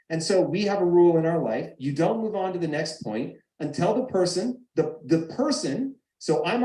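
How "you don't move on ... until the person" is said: usual speaking voice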